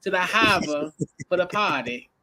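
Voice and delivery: imitation Celtics fan in Boston accent; light mock Boston accent. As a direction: play a Boston fan, dropping the R's. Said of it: "I like that accent, that Boston accent".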